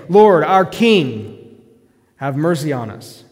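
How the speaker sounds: loud, slow cry of "Lord, our King"; retold plea shout. Preacher paraphrasing the blind men's loud cry. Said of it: "They're saying".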